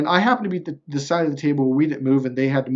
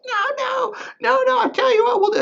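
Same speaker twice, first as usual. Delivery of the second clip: pleading opponent. Retold or imitated.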